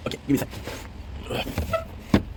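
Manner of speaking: breathless murmured aside, very slow; quiet aside. Real, not acted. To someone off camera, a slow whispered aside. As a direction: drop the voice to a whisper off mic.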